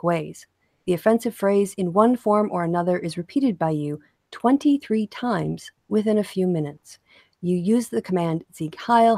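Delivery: measured read-out of a court ruling; deliberate courtroom recitation; formal statement reading. Acted. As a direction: read it evenly, like a judge's written verdict.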